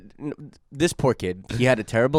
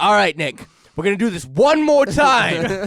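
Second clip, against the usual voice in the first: mock stern friend; 7 semitones higher than usual. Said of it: "he's like".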